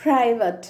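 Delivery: ప్రైవేట్ ending in schwa, "PRY-vuht"; ప్రైవేట్ with a light "uh" last syllable; American schwa variant. Shown as a demonstration. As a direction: weaken the end of ప్రైవేట్ to "-vuht". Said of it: "అలా కూడా పలకచ్చు".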